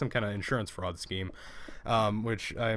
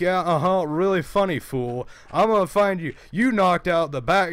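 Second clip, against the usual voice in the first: loud, higher-pitched mock threatening caller; imitated angry caller; 6 semitones higher, 5 dB louder than usual. Retelling the caller's threat to find him, imitating an angry man. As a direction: put on the irate caller's voice and accent. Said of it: "using my generic black man accent".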